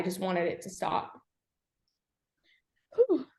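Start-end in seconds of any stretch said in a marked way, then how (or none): 2.9-3.3 high, short whew of release; heavy exhale. Real, not acted. After telling interviewer of suicide attempt, a heavy exhale. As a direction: let out a real steadying breath.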